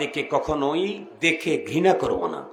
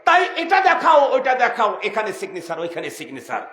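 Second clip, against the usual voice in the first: high, loud official demands; forceful checkpoint commands; barked orders; 4 semitones higher, 4 dB louder than usual. Acted. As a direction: rattle off orders like a border officer. Acts border officials giving orders.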